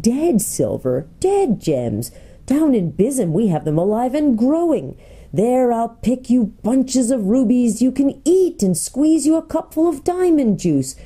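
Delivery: a hint of a boastful gnome, relishing each treasure; lightly played gnome guide luring visitors down; lightly voiced gnome Golg, boastful.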